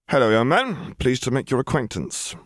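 put-on greeting a small child. A narrator's reading. Man greets a shy little boy.

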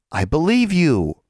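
drawn out high to sound doubtful; unconvincing reassurance. Acted. Anna half-heartedly reassures Alexandra, slow and unconvincing. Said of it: "Alexandra wasn't sure Anna believed her".

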